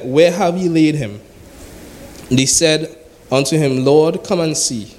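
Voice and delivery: measured, solemn Bible reading; steady preacher reading scripture. Acted. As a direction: read the verses aloud to the congregation.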